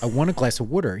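"water" said as "wooder"; patient repeat with "water" as "wooder"; Delco pronunciation. Retold or imitated. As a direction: say "water" with the oo of wood. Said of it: "how many times I gotta repeat myself".

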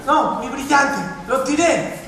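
panicked. Retold or imitated. Wife confesses throwing away diamond.

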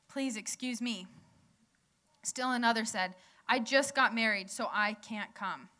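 measured, careful Bible reading; scripture reading. Shown as a demonstration. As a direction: read the passage slowly to the congregation. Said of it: "I'll read slowly".

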